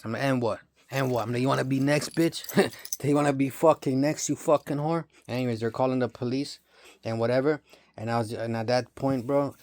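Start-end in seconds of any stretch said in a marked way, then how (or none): 0.2-1.2 mild retold snap of defiance; retold snapping. Dreamer challenging the people who told on him, retold snapping. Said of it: "I fucking snapped on these motherfuckers". 1.4-5.0 acted-out threat, slightly raised, amused; retold snapping. Dreamer threatening his accusers in a retold story, mock snapping. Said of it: "I fucking snapped on these motherfuckers".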